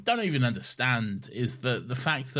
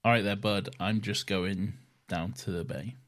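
Welsh accent; 6 semitones lower, 4 dB quieter than usual. Shown as a demonstration. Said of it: "Now challenge me to an accent".

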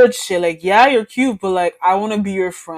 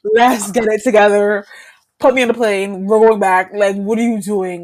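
frantic plea; 2 semitones higher, 6 dB louder than usual. Retold or imitated. Retold pleading to leave.

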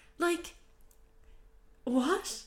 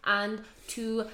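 robot voice; 2 semitones lower than usual. Real, not acted. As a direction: drone the thanks like a robot. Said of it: "talking like a robot now".

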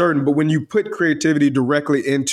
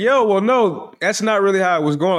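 higher-pitched, defensive objection; mild protest; 5 semitones higher than usual. Retold or imitated. Student explaining himself to the teacher, mildly protesting. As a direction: push back like a wrongly accused student.

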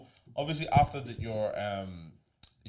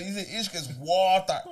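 imitated Irish lad; 8 semitones higher, 5 dB louder than usual. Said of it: "a normal conversation with Irish people".

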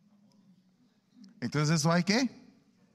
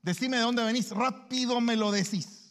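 threatening tone; 6 semitones higher than usual. Acted. Parent threatening a child to say where they've been. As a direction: bark the questions like a threat. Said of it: "el tono amenazante".

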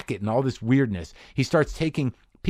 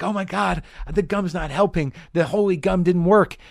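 mock despair; 7 semitones higher than usual. Gum not helping.

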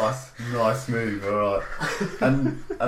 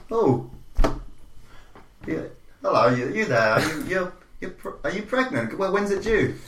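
higher, fussy mum asking nosy questions; 5 semitones higher than usual. Acted. Mum voiced in the story.

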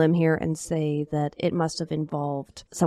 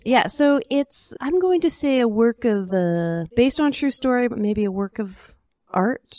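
theatrical; 3 semitones higher than usual. Acted. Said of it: "put a theatrical twist".

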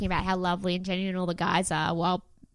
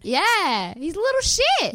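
mock bloke voice; 10 semitones higher, 6 dB louder, slower than usual. Imitating a guy on show.

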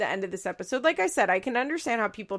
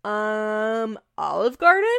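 unsure, rising mock answer; a hesitant little Olive Garden?; imitating Janelle; 7 dB louder, slower than usual. Janelle answering the question, mock hesitant rising. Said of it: "And Janelle goes".

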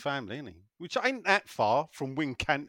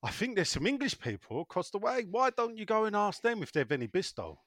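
higher-pitched comic Yorkshire housewife; put-on Yorkshire wife voice, higher; 7 semitones higher than usual. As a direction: suggest it as a Yorkshire wife in a joke. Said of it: "And she goes".

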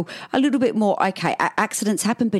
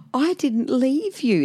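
put-on higher, slow reassurance to a child; drawn-out, higher-pitched motherly soothing; retold motherly reassurance; 7 semitones higher, much slower than usual. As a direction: gently insist to your little boy. Reassuring her upset son at bedtime.

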